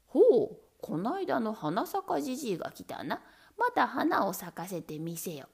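loud lordly call. Acted. Lord calls out to old man.

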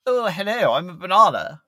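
high, meek and polite; shy little hello; timid posh fruit voice. Pretend. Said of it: "a banana's like".

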